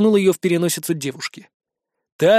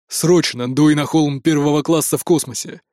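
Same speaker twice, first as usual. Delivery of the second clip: exclaimed; 3 semitones lower than usual. A narrator's reading. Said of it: "воскликнул он".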